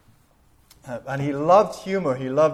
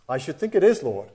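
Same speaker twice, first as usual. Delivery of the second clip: delighted retort; 3 dB louder than usual. Retold or imitated. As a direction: say it to the Lord like the joke just landed. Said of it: "and burst out laughing".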